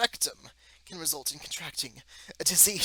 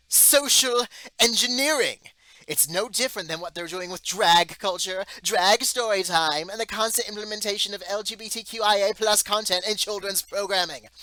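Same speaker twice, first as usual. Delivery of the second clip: indignant outburst; 7 semitones higher, 10 dB louder than usual. Real, not acted. Indignant rant on media agenda.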